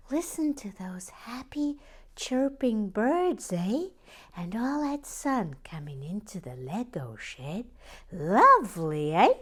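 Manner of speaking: mock Canadian accent, high and bright; a playful stab at a Canadian voice; Canadian accent attempt. Imitating viewer Gillian B in a mock Canadian accent. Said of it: "get into Gillian B's, uh, accent".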